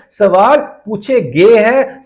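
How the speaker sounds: slow, drawn-out stress on "गए"; emphatic repetition. Real, not acted. Teacher telling students about exam questions, slow stress on "गए". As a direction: stretch out "गए" deliberately for emphasis.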